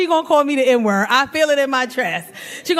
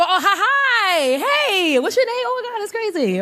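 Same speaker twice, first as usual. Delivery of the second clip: flustered flirting; 7 semitones higher than usual. Acted. Woman greeting a man she is ogling, flustered flirting. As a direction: play a gushing, giggly hello in a higher voice.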